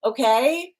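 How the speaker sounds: put-on mother telling squabbling kids I don't care who started it; stern cosmic mother. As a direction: scold like a mother who won't hear excuses. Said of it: "I'm gonna be your cosmic mother".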